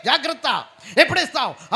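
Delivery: loud, high yell; bully threatening shout. Retold or imitated. Creditor threatening a debtor, yelling. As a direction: threaten like a debt collector. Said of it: "అంటాడంతే".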